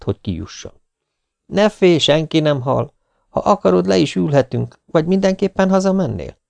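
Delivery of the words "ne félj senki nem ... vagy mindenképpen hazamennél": a hint of a gentle young man's voice, higher; calm her down lightly; lightly voiced DJ reassuring the girl.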